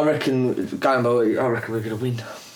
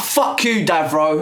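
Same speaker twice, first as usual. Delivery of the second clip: heated shout; slower than usual. Real, not acted. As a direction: spit the insult out. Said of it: "heated first take".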